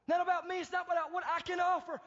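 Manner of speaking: high, emphatic declaration; emphatic conviction. Acted. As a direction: insist on it with full conviction. Voices the confident believer's answer.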